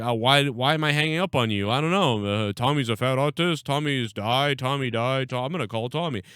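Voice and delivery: mock-innocent sarcastic retort; retelling a sarcastic comeback. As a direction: reel off the insults sarcastically, as a retold comeback. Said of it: "like, sarcastically".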